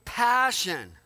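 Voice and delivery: loud, slow, stretched-out emphasis; passionate. Shown as a demonstration. Preacher showing what real prayer is, passionate. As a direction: belt it out slowly with passion. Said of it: "cried out with a passion".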